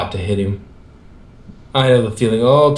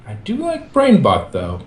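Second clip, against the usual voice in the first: goofy high voice; 5 semitones higher than usual. Acted. Michelangelo's goofy afterthought.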